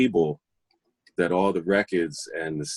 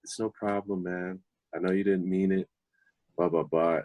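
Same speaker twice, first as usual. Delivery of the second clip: softer, relaxed no-big-deal tone; cool, easygoing reassurance; 5 dB quieter than usual. Retold or imitated. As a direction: shrug it off gently, man to man. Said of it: "he was so cool about it".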